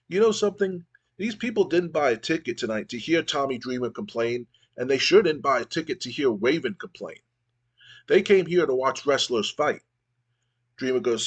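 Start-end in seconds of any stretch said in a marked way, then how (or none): 0.1-9.8 a lightly acted fired-up challenge, pitched higher; mock wrestling promo, pushing it a bit; fired-up callout. Dreamer calling out Raven in front of the crowd, a touch fired up.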